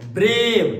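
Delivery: ब्रेव said loudly in one unbroken beat; one-syllable demo. Shown as a demonstration. Teacher showing students ब्रेव takes one go, loud single-syllable demo. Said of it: "only one time".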